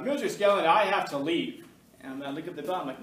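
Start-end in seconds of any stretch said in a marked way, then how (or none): 0.0-1.6 loud, slow cowboy drawl imitating a student; a student doing John Wayne, loud and drawn out. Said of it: "he talked like John Wayne".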